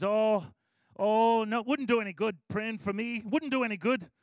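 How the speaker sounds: a light Irish lilt on a retold refusal; faintly Irish, self-deprecating no; Irish accent. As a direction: slip into a hint of Irish accent, waving the offer away. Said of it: "All of a sudden, he sounded Irish".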